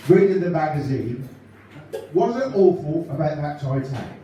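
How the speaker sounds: lightly voiced chirpy northern comic telling gags; a light take on a cheery stand-up comic; Ken Goodwin impression. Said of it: "for Ken Goodwin, ladies and gentlemen".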